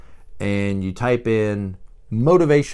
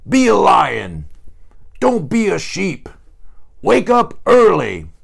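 higher, louder hype-coach shout; hammed-up drill coach yelling at a lazy listener; mock motivational shouting; 8 semitones higher, 5 dB louder than usual. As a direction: bellow it like a gym pep-talk recording. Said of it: "it's like somebody yelling at you".

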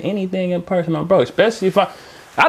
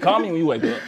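laughing quote; 3 semitones lower, faster than usual. Retold or imitated. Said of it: "that's how a bitch gonna tell you".

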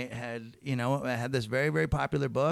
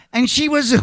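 laughing; 10 semitones higher, 11 dB louder than usual. Retold or imitated. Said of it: "laughs snorting".

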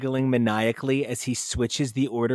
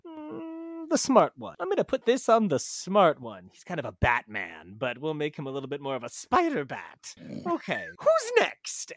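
musing Mephisto voice. Retold or imitated. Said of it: "was like".

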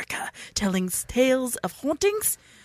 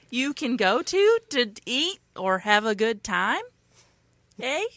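put-on Canadian accent.

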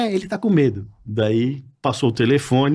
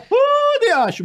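Batoré impression; much slower than usual. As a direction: imitate the comedian's call. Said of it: "Você imitava ele?". (imitação aguda do Batoré)

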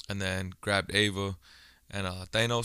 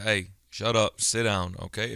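mildly stern retold scolding; a firm dad laying down the law. Dad retelling how he told his daughter off, stern. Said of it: "so I got stern with her".

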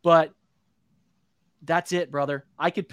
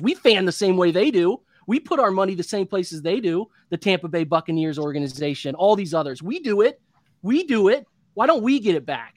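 frustrated rant. Real, not acted. Podcast host ranting to fellow Browns fans, heated and building. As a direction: vent it like a fed-up fan who's had enough. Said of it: "That was a good rant".

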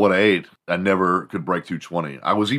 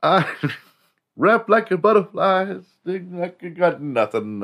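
boastful boxer voice; 13 semitones higher, 4 dB louder than usual. Retold or imitated. Mocking a boastful famous boxer.

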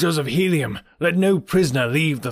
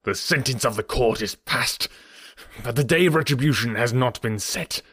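trembling with rage; 3 semitones higher than usual. Acted. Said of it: "his voice trembling with rage".

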